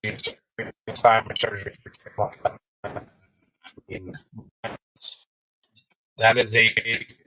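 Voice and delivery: choppy, cutting-out audio; bad connection. Real, not acted. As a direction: voice breaking up over a bad line. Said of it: "You're breaking up so bad".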